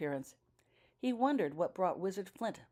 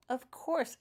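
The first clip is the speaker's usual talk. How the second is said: raised, agreeable of course; sympathetic; 10 semitones higher, 4 dB louder than usual. A narrator's reading. Daniel agreeing with the wizard, sympathetic. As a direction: agree kindly, on his side. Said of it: "agreed Daniel sympathetically".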